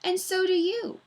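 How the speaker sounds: villain charms Miss Mush in a Scottish gent's voice; charming Scottish gentleman. Acted. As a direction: flatter her politely. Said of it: "speaking like the gentleman from Scotland".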